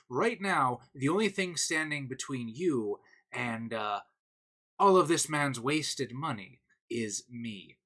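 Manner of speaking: oily, condescending captive officer; smug villain. Acted. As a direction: lay it on, smug and patient. GM voices smug Imperial captive.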